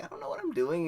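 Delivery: high, loud panicky whine; nervous panic. Retold or imitated. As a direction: squeal it out in helpless panic. Panicked first time smoking.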